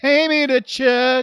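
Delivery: high, drawn-out shout; loud title call. Real, not acted. Co-host echoing the show title, big loud announcement. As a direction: belt out the title slowly.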